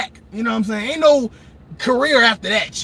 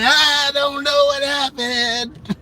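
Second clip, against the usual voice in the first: dazed blinded Jesse; 2 semitones higher, much slower than usual. Retold or imitated.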